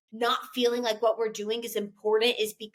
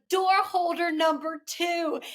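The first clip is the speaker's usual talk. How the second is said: higher, slow imitation of an excited little boy; retold as a thrilled child's announcement, drawn out; proudly excited; 6 semitones higher, slower than usual. Co-host quotes little boy announcing his play part, proudly excited. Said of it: "he was so excited".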